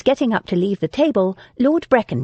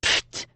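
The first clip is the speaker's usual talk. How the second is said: puff of disbelief; 5 dB quieter than usual. A narrator's reading. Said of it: "made a puff of disbelief".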